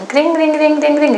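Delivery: high, loud "kring" repeated; imitated phone ring. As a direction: mimic an old telephone bell. (meniru dering telepon)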